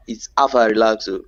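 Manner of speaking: "Alpha Relaxo" said quickly as "afa relakso" in a Nigerian pidgin lilt; pidgin accent. Shown as a demonstration. Teaching friends the pidgin greeting, pidgin lilt. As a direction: roll off "Alpha Relaxo" fast, pidgin style. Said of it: "with the accent we add to it".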